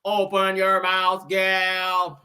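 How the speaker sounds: slow, flat robot voice talking aggressively; robotic Martian. Retold or imitated. Host mocking a Martian robot voice, slow and robotic. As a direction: drag each word out like a bossy alien machine. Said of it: "Real robotic and shit".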